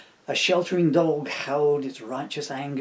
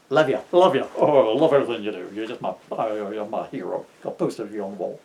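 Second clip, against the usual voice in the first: mock gushing fan; 3 semitones lower, 6 dB louder, faster than usual.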